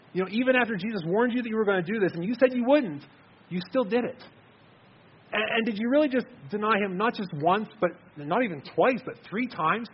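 incredulous questioning. Acted. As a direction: ask Peter as if you cannot believe it. Preacher questions Peter in disbelief.

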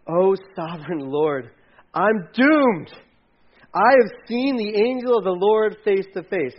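loud, slow, dread-filled cry; crying out in fear. Retold or imitated. Gideon crying out to the Lord, loud and slow in dread. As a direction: wail it like a man sure he'll die. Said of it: "he cried out".

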